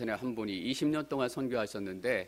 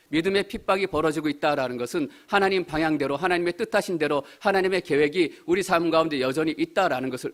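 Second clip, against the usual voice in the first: raised, higher sermon voice; forceful preaching; 4 semitones higher, 6 dB louder than usual. Real, not acted. Preacher assuring believers of God's plan, forceful raised preaching. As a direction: proclaim it firmly to the congregation.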